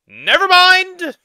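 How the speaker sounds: loud high outburst; shouting. Real, not acted. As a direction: yell it out in shock. Shocked outburst at video.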